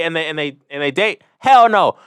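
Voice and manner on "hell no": loud, high hell no; loud emphatic denial. Real, not acted. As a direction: shut it down hard. Emphatic answer to own question.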